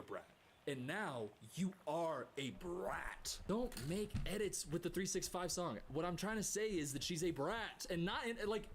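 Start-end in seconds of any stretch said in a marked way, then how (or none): 0.7-3.4 slow breathy whisper; a hushed, slow taunt. Acted. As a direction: whisper it slowly, like a secret jab. Mock insult to the creator.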